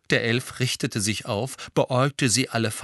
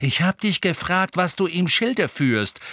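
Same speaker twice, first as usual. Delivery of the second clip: raised, firm, controlled demand; cool, stern; 10 semitones higher than usual. A narrator's reading. Sirius repeating his question to the elf, cool. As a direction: press the question coolly at a higher pitch. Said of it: "sagte Sirius kühl".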